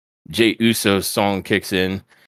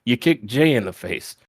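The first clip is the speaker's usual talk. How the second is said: upset accusation; 6 semitones higher than usual. Retold or imitated. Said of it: "like, very upset".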